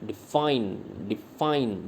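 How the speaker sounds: डिफाइन with a short di and long FINE; stress on F. Shown as a demonstration. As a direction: lean on the second syllable of डिफाइन. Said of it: "इसमें हम एफ पे stress देते हैं".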